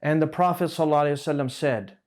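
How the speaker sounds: fast, hurried blessing; mock rushed speaker gabbling the blessing; rushing through it. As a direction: rattle off the blessing in a hurry. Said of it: "they'll just say".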